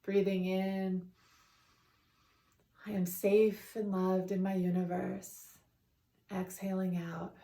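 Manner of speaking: calm, measured affirmations with long pauses; guided meditation. Real, not acted. Continues the guided breathing meditation.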